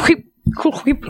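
high-pitched "cool whip", blowing hard on the WH; exaggerated H. Shown as a demonstration. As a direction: WHIP with a puffed, airy "hw". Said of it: "you gotta do your H's like".

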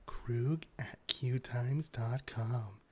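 slow, soft, unvoiced whisper; creepy whisper. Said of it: "That's creepy".

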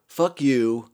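loud, punchy mock yell at the nurse; shouting back at the nurse in a retold fit; yelled retort. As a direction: snap back hard, angry. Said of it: "and I'm like".

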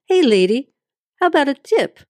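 a pushy cabbie, voiced up high; gruff cab driver. A lightly voiced cab driver calling after his passenger. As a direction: heckle her for a tip as she leaves.

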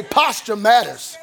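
slow, punched "Posture matters."; call-and-response shout. Shown as a demonstration. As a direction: lead the crowd, hit "Posture" hard. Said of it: "Somebody say".

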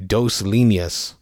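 put-on slow, heavy-handed gringo Spanish accent; a bad Spanish accent, spelled out word by word; slow, clumsy English-speaker Spanish accent; terrible Spanish accent. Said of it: "said a man in a terrible Spanish accent".

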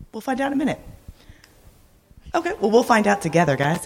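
quick, laughing aside. Real, not acted. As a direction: laugh it off with the crowd. Slides missing, laughs it off.

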